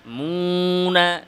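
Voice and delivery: আয-যালিমুনা drawn out, only the মি nasal; nasal mim only. Shown as a demonstration. Teacher modelling nasal mim, oral waw. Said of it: "মিম নাকে যাবে".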